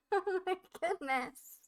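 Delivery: cracking up at what just happened; laughing disbelief. Real, not acted. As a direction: laugh through the shock. Laughing in shock.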